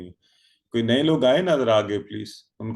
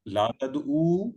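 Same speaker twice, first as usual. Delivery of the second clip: slow drill; 3 semitones higher, much slower than usual. Shown as a demonstration. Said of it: "مت".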